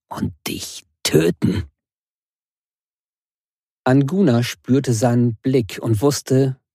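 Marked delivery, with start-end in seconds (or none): 0.1-1.6 low growling whisper; greedy growl. Acted. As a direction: growl it with hunger. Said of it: "Er knurrte gierig".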